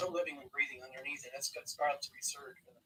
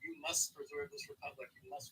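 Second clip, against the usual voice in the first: lightly put-on, mock British accent; horrible British accent; 6 dB quieter than usual. Founding fathers urging us on from the grave, in a mock British accent. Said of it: "my damn horrible British accent".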